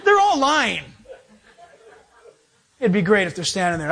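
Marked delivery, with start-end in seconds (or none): 0.0-0.8 talking through real laughter; amused, higher voice breaking into laughs; laughing. Real, not acted. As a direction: crack up at your own joke mid-sentence. Laughing at his own TV joke.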